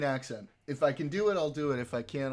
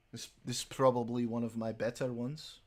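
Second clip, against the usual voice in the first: Scottish accent; 2 semitones lower than usual. Shown as a demonstration. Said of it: "I do a pretty good Scottish".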